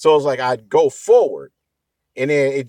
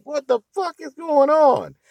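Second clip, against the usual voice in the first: imitating shocked coworkers. Coworkers reacting to noisy car.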